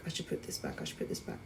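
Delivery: soft, low retold muttering; muttered self-talk. Shopper second-guessing purchases to save money, muttered self-talk. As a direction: mutter it under your breath, trailing into near-whisper.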